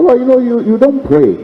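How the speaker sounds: high, chiding divine voice; voice of God. Retold or imitated. God telling Michael he doesn't pray, high chiding. God's voice accusing.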